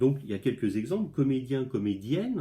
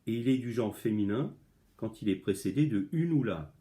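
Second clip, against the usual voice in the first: reading the lesson aloud. Shown as a demonstration. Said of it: "je lis la leçon".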